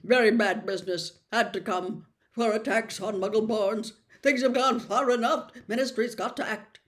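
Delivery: the Minister clipping each phrase; clipped tones. Acted. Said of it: "in rather clipped tones".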